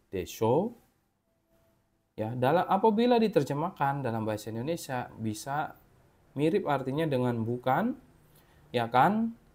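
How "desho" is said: desho said with an upward tune. Explaining desho used to confirm something: rising pitch on desho. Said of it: "kalau ini nadanya naik".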